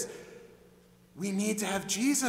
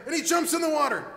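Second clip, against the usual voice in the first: excited telling; 8 semitones higher, 5 dB louder, faster than usual. A narrator's reading. Excited narration of jump.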